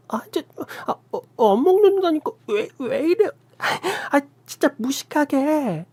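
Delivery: very high, tearful struggling protest; panicked protest. A narrator's reading. Sister-in-law struggling against food pushed in, panicked. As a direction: fight her off, near crying. Food shoved in her mouth.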